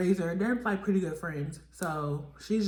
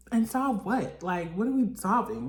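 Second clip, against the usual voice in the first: incredulous question; 4 semitones higher, 4 dB louder than usual. Retold or imitated. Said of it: "vlogger questioning the plan".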